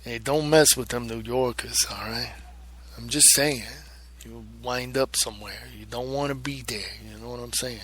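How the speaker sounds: put-on tough-guy New York accent; New York accent, playful threat. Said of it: "I'm from New York or something".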